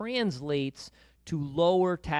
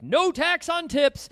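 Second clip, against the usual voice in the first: imitating a thrilled teenager, much higher, louder and slower; excited teen; 11 semitones higher, 6 dB louder, slower than usual. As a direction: cheer it out like a kid who just heard great news. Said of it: "He was all excited about that".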